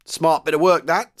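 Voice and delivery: loud, high, hearty approval; approving. A narrator's reading. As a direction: praise him heartily and loudly. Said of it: "said the sergeant major approvingly".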